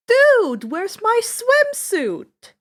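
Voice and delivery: loud, high, slow surfer-dude voice; reading out a silly water park attraction; goofy ride name. A narrator's reading. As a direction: ham up the dumb ride name.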